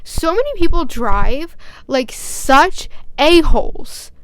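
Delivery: real irritation, drawn out and emphatic; really angry. Real, not acted. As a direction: vent it, dragging out the key words. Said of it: "This is making me really angry".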